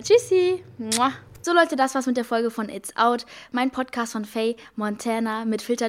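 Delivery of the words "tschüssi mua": cutesy goodbye. Real, not acted. Cute goodbye.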